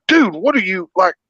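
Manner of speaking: pitched well up in disbelief, imitating himself; incredulous mock rant. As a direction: act baffled and high, calling out the hero. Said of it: "And I'm like".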